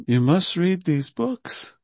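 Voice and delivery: slow, tender fatherly urging; a loving parent's gentle push; parental but affectionate. Retold or imitated. Imitating Prabhupada urging his devotees to read, slow and tender. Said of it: "parentale, mais affectueuse".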